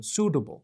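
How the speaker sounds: Suitable with the t eased into a D; Suitable, middle T with little air; T softened to D. Shown as a demonstration. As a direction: say Suitable as "soo-duh-bul". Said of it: "فشار هوا رو بیارید پایین".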